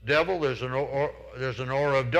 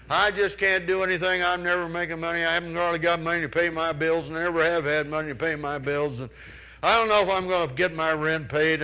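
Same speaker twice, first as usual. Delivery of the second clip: raised pitch, louder mock whine; whining complainer; 4 semitones higher, 4 dB louder than usual. Preacher voices a hopeless complainer to the congregation, whining. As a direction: moan about money like a hopeless complainer.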